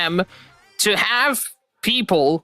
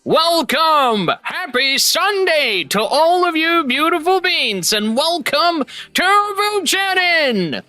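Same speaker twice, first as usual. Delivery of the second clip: excited greeting; 7 semitones higher, slower than usual. Real, not acted. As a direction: welcome the crowd with big energy. Big stream opening greeting.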